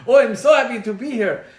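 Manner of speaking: put-on high, loud, gushing Russian accent; effusive Russian scientist. Russian scientist hugging a stiff Dutch woman, exuberant Russian accent. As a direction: burst in with a big Russian-accented greeting. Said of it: "this Russian scientist bounds in the room".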